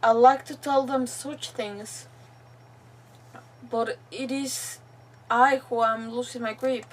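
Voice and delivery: deliberate, phrase-by-phrase reading; reading a captive's diary. Acted. Captive's farewell to the troop, deliberate read-aloud voice. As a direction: read the final words with long pauses.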